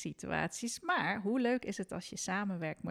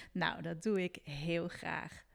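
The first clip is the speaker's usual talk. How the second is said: ordinary delivery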